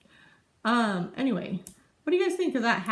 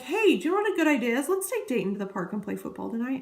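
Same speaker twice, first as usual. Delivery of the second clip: light mock husband, quick and pleased with his own idea; imitating husband. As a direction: play the husband proudly announcing it as new. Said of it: "Impression of my husband".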